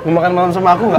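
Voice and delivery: barely voiced crocodile, near own voice; a hint of a flirty crocodile. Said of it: "Suara buaya".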